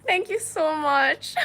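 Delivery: high, loud mock Indian accent; giggly, put-on Indian accent. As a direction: thank them slowly in a playful Indian accent. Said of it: "I'm just doing, um, Indian accents".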